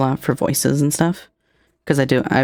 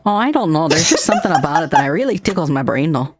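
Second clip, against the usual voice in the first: put-on Minnesotan accent; 4 semitones higher than usual. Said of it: "I fucking love the Minnesota accent".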